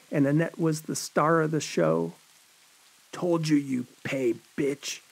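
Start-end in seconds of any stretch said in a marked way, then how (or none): 3.1-5.0 menacing killer. A narrator's reading. Bloody John gloating over Annette, lightly voiced menace. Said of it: "a bloody John said".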